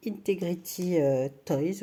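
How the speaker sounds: Integrity Toys said with an English accent. Real, not acted. Crocheter naming the doll brand to viewers, in an English accent. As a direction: give the brand name its English sounds, not French ones. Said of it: "excusez-moi avec mon accent, euh, anglais".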